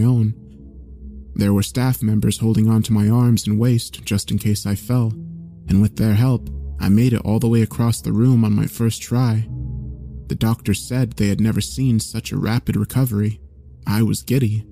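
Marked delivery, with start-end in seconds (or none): none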